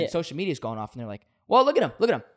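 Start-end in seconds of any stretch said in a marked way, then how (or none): 1.5-2.2 mocking jeer. Social media mocking Colby's turnaround.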